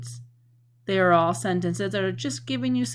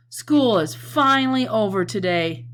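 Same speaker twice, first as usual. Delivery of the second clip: louder, gleeful announcement; louder show-and-tell excitement; excited exclamation; 2 semitones higher, 6 dB louder than usual. Shown as a demonstration. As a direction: celebrate the last bell. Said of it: "They're being said with a lot of feeling".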